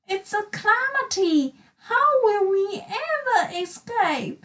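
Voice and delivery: high, wailing voice of doom; despairing character. Acted. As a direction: cry out that there's no way out. Trapped friends lamenting.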